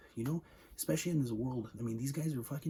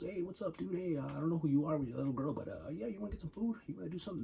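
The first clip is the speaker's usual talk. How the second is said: lightly voiced friendly stranger, pitched higher; a hint of an overly chummy greeter; a touch of a mock-friendly survivor; 4 semitones higher than usual. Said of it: "where someone goes".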